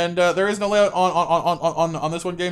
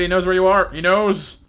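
loud, ominous repeated warning; hammed-up doom, he knows; louder spooky warning to Molly; dramatic warning; 2 semitones higher, 5 dB louder, slower than usual.

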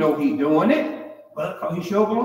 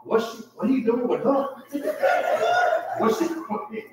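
laughing holler; 6 semitones higher than usual. Retold or imitated. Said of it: "he hollered".

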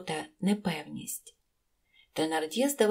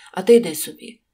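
much louder brusque order; curt dismissal; 11 dB louder, faster than usual. A narrator's reading. Husband turns to his wife and orders her out, brusque. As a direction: send someone away sharply.

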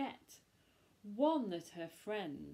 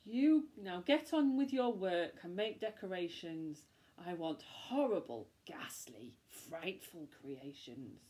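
witch ordering; 3 semitones lower than usual. Acted. Witch ordering decorations, whispering the ghastly bits. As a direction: relish the nasty words, whispered. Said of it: "witch giving orders".

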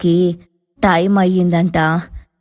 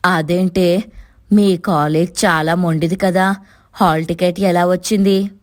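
puzzled surprise; 3 semitones higher than usual. A narrator's reading. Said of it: "ఆశ్చర్యంలో".

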